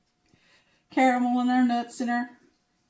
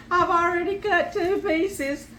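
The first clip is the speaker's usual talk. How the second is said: laughing; 7 semitones higher, 4 dB louder, slower than usual. Real, not acted. Showing off the cut pie.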